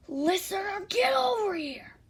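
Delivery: high, forceful yell; calling out angrily. A narrator's reading. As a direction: order them over from a distance. Angry character calls listener over.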